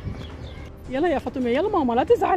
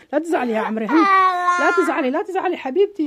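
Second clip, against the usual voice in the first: tearful comforting. Acted. Comforting doll, sobs heard.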